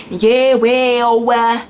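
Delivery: a lightly put-on, slow, casual ghetto makeup tutorial; a hint of street slang in a beauty tutorial; mock ghetto tutorial voice. Shown as a demonstration. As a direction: play a careless tutorial host, drawling it out slowly. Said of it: "I'm not speaking like that on my makeup tutorials".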